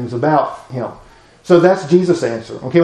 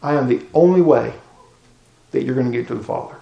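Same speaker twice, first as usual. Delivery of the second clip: firm Jesus reply; 4 dB quieter, faster than usual. Acted. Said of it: "Jesus says".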